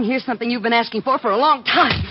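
building to a loud, punched finish; angry outburst. Acted. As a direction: wind up loudly for the slap.

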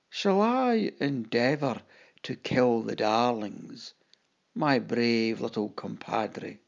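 slow, deliberate, mildly pompous captain; grand stage voice. Acted. Clown captain addresses his little companion, a slow mock-grand voice. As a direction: roll it out slowly like a showman. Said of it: "spoke loud and clear".

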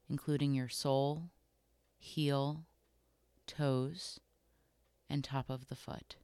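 calm, unhurried body scan guidance with long pauses between phrases; guided meditation. Acted. Host guiding listeners through a body scan, calm guided meditation. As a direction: gently lead them through it, leaving room to notice.

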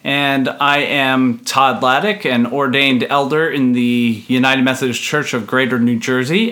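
lispy S's from fake tooth; talking round a loose fake tooth; lisp from swollen mouth. Real, not acted. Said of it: "I'm talking like that because I can't help myself".

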